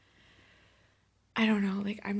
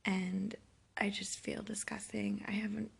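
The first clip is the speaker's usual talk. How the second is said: hungover. Real, not acted. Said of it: "I don't think I've been this hungover".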